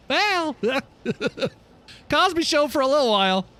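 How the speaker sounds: words broken by a real laugh; chuckling through it; laughing while talking. Real, not acted. Streamer laughing to chat about the Cosby Show.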